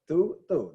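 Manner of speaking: "Tu, tu" as the same "too" twice; identical pronunciation. Shown as a demonstration. Teacher shows same exact pronunciation, "Tu, tu" said identically. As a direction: say both "Tu, tu" alike, evenly stressed. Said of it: "they're not pronounced any differently".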